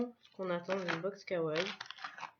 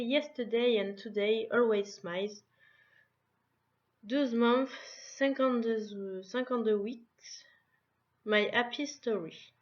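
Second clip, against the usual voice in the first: French-accented English; 2 semitones higher, 5 dB louder than usual. Real, not acted. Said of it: "Excusez-moi pour mon anglais".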